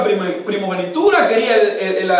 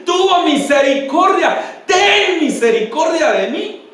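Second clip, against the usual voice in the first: high imitated plea, mildly raised; retold appeal; 6 semitones higher than usual. Blind man appeals to the Son of David, imitated crying plea. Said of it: "aquel hombre ciego estaba apelando".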